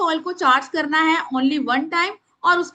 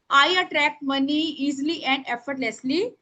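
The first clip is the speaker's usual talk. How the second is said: very slow, word by word; slow dictation to the class; much slower than usual. Shown as a demonstration. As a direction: spell it out for writing. Dictating prayer.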